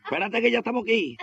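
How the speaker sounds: high-pitched acted pleading; mock urgency. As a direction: play an injured man calling from a hole. Acted rescue of the fallen man.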